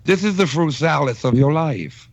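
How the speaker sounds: lightly lisping impersonation; impression with a slight lisp. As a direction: deliver it as a lisped imitation. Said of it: "Ken morphing into his impression".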